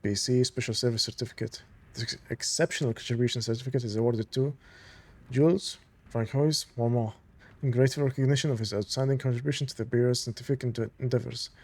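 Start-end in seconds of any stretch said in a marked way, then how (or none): 5.3-7.1 French accent on names. Shown as a demonstration. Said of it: "saying these names in this accent".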